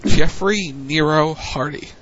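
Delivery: nasal, nose held, slow; pinching nose. Shown as a demonstration. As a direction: say it holding your nose. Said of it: "Do I go hold my nose like this".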